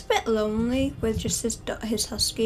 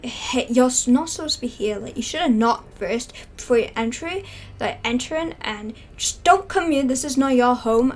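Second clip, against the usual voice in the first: louder, indignant scolding; angry homeowner scolding; 4 dB louder than usual. Pretend. Homeowner scolding girls who walked into his station, loud. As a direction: tell the intruders off sharply. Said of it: "just looking at angry".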